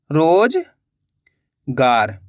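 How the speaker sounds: drawn-out word. Shown as a demonstration. Teacher to pupils, stretching रोजगार slowly. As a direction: stretch रोजगार very slowly, every sound held long. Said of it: "रो का उच्चारण निकल रहा है".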